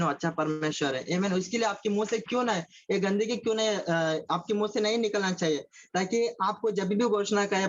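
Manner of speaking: usual speaking voice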